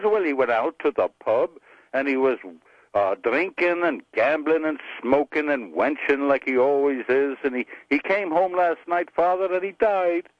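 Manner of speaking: lightly voiced Irish widow telling her tale; Irish accent. Mary telling the priest what happened, Irish accent. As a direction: recount it with an Irish lilt. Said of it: "you wanna hear an Irish joke".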